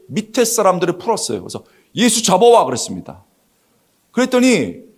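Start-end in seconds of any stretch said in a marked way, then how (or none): 1.9-2.6 higher-pitched mock order; playing a leader giving orders; acted command. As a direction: order your underlings out.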